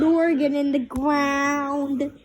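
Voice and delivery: slowed echoing repeat. Acted. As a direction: parrot the last words slowly. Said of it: "Would you stop repeating things".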